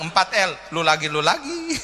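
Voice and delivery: mock weary sigh, pitch jumping up on the last lu lagi; a tired angel rolling eyes at a regular; exasperated angel. Annoyed angel to praying mother, mock exasperated. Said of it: "malaikat bilang".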